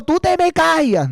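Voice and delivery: mock wife snapping, pitched far up; hammed-up wife shushing her husband. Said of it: "viene tu marido". (imitando a la esposa que calla al marido, muy aguda)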